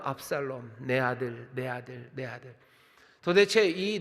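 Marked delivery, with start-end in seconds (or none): 0.0-2.5 a hint of a grieving father; mild lament. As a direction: lament fading softer with each repeat. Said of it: "이 통곡에는". (점점 작아지는 잔잔한 통곡)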